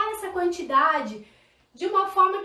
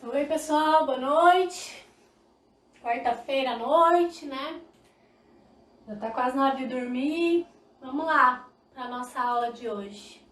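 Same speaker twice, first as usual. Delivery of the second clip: tired, unenthusiastic greeting; 3 semitones lower, slower than usual. Shown as a demonstration. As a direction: drag out a weary hello, low energy. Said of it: "Olha só a minha entonação".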